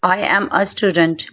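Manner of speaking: slow, with "a" as open "uh"; correct article sound. Shown as a demonstration. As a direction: model "a student" slowly for learners. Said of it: "ए नहीं बोलेंगे".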